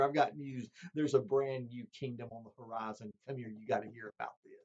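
gently telling family the news, hushed; changed soldier. Retold or imitated. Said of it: "he'd say, Honey".

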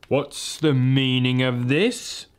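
slow, cold queenly demand; witch queen. Acted. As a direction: demand it slowly, icy and regal. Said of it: "asked the witch queen".

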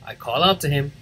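ordinary delivery, nothing marked

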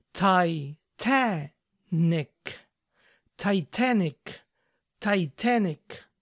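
"Titanic" as tai-TA-nic, both T's crisp; crisp sounded T's. Shown as a demonstration. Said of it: "Recuerden pronunciar bien las T's".

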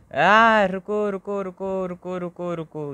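high, urgent wait wait; high panicked cries of wait; panicked stop. Real, not acted. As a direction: yelp and beg the game to wait. Panicking as game slips.

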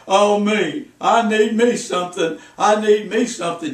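mock the complainer; a hint of a whining sad sack; self-pitying whine. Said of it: "They always talk about themselves".

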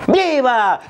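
drawn-out falling cheer; acted crowd shout. Comic playing himself answering the Grito leader, mock shouting. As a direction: answer the patriotic call like a crowd member. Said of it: "yo estaba gritando".

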